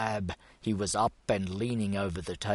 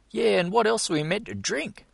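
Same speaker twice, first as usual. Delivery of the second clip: much higher, fast outraged echo; equal indignation; 13 semitones higher, 5 dB louder, faster than usual. A narrator's reading. The other Maoist backing Col up, high outraged question. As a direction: pile on, just as offended. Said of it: "with equal indignation".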